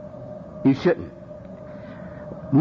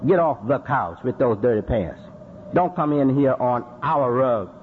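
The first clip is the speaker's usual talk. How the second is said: calm correction; 5 semitones lower than usual. Shown as a demonstration. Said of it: "We should say".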